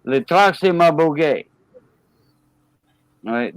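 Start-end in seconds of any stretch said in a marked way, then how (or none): 0.0-1.5 French line ending on boguet as bo-GAY; French rendering, boguet stressed at the end; French phrase. Shown as a demonstration. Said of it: "boguet in French".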